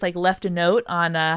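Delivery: ordinary talk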